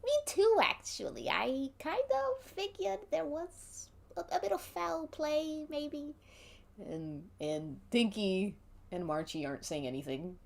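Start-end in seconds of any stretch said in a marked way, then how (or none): 0.0-6.1 a second go at the squeaky voice, held more steadily; corrected character voice. Acted. Debbie agreeing there was foul play, high-pitched and timid. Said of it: "my accents are mixing".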